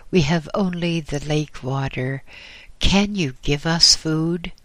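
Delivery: put-on weary young monk, mildly pleading; lightly voiced young monk. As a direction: plead for food with a hint of urgency.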